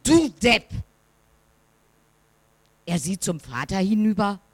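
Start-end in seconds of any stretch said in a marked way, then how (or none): 0.0-0.7 the insult thrown back, less loud; echo. A narrator's reading. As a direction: echo it back from far away. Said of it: "Und erhält zur Antwort".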